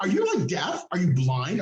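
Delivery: jab at the nurse's hearing; mocking question to the nurse about being deaf; mocking disbelief. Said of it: "retold rant at nurse".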